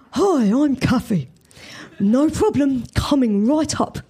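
lightly voiced cheerful cafe lady; a hint of a friendly server; smoker's voice. A narrator's reading. Kathy answers the new customer, lightly cheerful. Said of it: "a voice that sounded ravaged by a thousand cigarettes".

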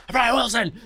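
high excited yell of a fan. Retold or imitated. Fan yells at Brian Wilson passing the sidewalk, high and excited. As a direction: call his name out like a starstruck fan. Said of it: "I, like, screamed at him".

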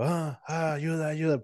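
restrained pretend cry for help; mock stifled plea. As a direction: reenact struggling to cry out in a dream. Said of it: "pero no podía hablar".

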